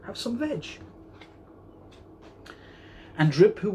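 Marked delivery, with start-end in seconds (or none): 0.1-0.8 hooted. A narrator's reading. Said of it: "and they hooted".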